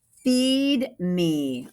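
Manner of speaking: monster demanding food; hungry thing. Acted. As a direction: growl it like a hungry creature.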